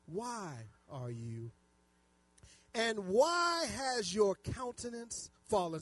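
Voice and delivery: slow, drawn-out Bible verse; deliberate preacher reading aloud; scripture reading. Acted. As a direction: stretch each word for the congregation. Reads scripture aloud to congregation.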